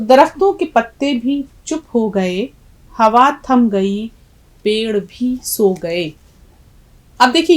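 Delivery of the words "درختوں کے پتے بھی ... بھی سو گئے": measured verse reading, slowing at the end; poem recitation. Acted. Teacher reading the poem to students, measured recitation. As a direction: recite in short phrases, easing into a slow close.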